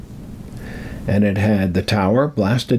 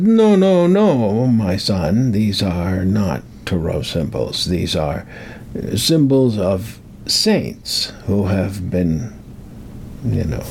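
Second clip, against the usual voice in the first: put-on terrible Hollywood accent; slower than usual. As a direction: imitate a priest with a bad Hollywood accent. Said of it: "that's a terrible accent".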